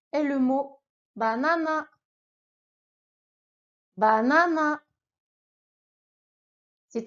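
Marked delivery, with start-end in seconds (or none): 1.1-4.8 banana, flat Japanese vowels. Shown as a demonstration. Teacher showing the katakana word to learners. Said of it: "répète après moi".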